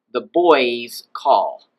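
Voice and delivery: put-on "boys" drawn out with no upward lift; boys normal and constant. Shown as a demonstration. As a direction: say "boys" slowly and keep it down. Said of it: "will stay normal and constant".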